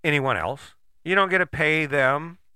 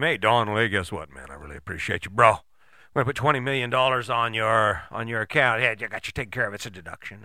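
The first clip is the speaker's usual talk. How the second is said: lightly voiced chummy backer, mostly lower; butter up a buddy in a lower voice; rich donor; 4 semitones lower than usual. Rich backer to the politician he pays, chummy donor voice. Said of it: "paying him".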